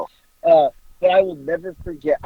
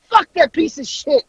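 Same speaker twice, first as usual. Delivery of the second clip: high-pitched mock ranting; retold belligerent cursing; 11 semitones higher than usual. Mother upside down in the chair about officer, mock belligerent. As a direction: keep cursing, high, as the outraged woman.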